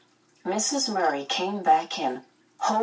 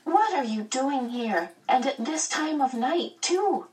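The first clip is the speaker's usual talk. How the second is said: put-on high-pitched, suspicious small boy; wary questioning, climbing higher; 9 semitones higher than usual. A narrator's reading. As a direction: interrogate the visitor in a child's high voice. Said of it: "Charles said suspiciously".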